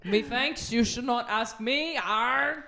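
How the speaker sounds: lightly voiced pirate Kennedy; a hint of a pirate president. President brushing off his agent, as a mild pirate. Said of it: "Like a Kennedy pirate".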